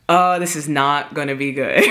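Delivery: low, ominous aside imitating her sister; retold foreboding. Sister bracing for a fight, retold foreboding. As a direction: imitate a sister who sees trouble coming.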